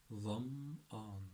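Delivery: ظمآن broken as "dham", pause, "aan"; syllable-by-syllable demo. Shown as a demonstration. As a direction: sound out ظمآن in two careful pieces. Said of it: "it's quite a difficult word".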